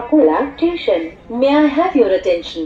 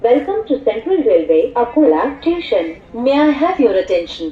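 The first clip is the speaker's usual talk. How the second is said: muffled railway station announcement. Acted. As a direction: announce the train over the platform speakers.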